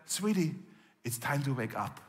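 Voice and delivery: soft coaxing wake-up call; like waking a daughter gently; a touch of motherly softness; tender. Retold or imitated. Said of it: "how tender Jesus was speaking".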